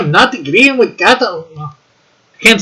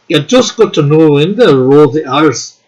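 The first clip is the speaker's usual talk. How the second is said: Scottish accent; 2 semitones lower than usual. Shown as a demonstration. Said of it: "Now I'm doing a Scottish accent".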